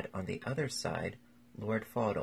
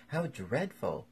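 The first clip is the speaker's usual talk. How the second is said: higher, drawn-out dismay; shocked exclamation; 6 semitones higher, 4 dB louder, slower than usual. A narrator's reading. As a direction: exclaim it slowly, with rising pitch. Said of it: "exclaimed Lady Agatha".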